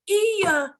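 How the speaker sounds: high, loud retold outburst; mock angry. Client confirming his bad insurance experience, mock angry. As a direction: snap back as the riled client. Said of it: "Terus orangnya marah-marah".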